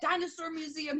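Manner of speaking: put-on kid's wish list. Parent imitating son listing places he wants, high kid voice. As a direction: voice a little kid reeling off places, pitched well up.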